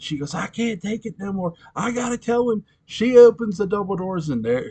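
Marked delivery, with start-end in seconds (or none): 0.3-2.7 high-pitched imitation of someone cracking; high, strained outburst without volume; Melanie losing it. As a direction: play a mild mock breakdown, pitch climbing. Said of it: "finally Melanie loses it".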